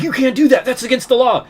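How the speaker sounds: high, loud mocking cop; sneering high-pitched impression of a cop. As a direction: parrot the cop in a squeaky high voice. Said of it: "it's like".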